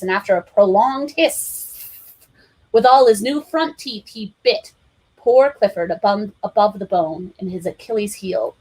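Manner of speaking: plain reading voice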